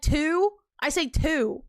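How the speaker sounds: "two" with a fronted vowel, like T-E-W; "two" said as "tew". Shown as a demonstration. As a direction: show your own "two", rhyming with "few" minus the glide. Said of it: "T E W is how I pronounce it".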